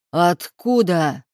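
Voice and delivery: a mild roar. A narrator's reading. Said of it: "Его рёв разнёсся по комнате".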